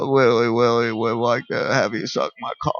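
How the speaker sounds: lightly voiced R-rated cartoon rabbit; a hint of a crude Bugs Bunny; dirty Bugs Bunny. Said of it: "it's like dirty Bugs Bunny".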